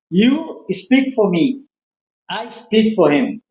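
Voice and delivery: bem lento, palavra por palavra; bem devagar e didático. Retold or imitated. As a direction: como quem ensina. Explica devagar à recepcionista. (explicando devagar à recepcionista)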